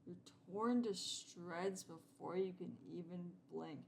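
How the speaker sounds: drawn-out narrator read; slow story narration. Acted. Player narrates the cat's attack, slowly. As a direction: savour the grim ending slowly. Reading game narration aloud.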